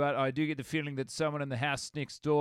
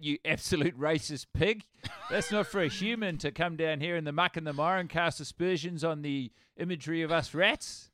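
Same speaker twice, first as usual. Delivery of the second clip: laughing mock outrage; 2 semitones higher than usual.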